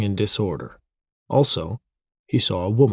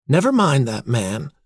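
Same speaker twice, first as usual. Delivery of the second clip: pointed dismissal, pitched up; 5 semitones higher than usual. A narrator's reading. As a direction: wave him off pointedly in a higher voice. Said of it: "she said pointedly".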